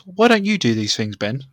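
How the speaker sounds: lightly voiced boss asking why; mock manager scolding. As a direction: play the boss, gently chiding. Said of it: "He goes".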